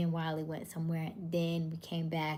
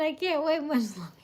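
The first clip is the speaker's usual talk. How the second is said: higher, louder mock voice of a viewer; laughing, quoting a viewer's comment in a louder, higher voice; mock quoting Sean; 10 semitones higher, 7 dB louder than usual. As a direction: playfully ham up the viewer's line. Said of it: "Sean said".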